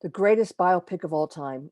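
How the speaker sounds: hushed, breathy title whisper; a dramatic whispered heading. Shown as a demonstration.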